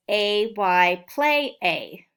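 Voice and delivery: slow, each letter and word set apart; slow sounding-out drill. Shown as a demonstration. Teacher drilling spelling sounds slowly for second graders. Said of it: "The second way".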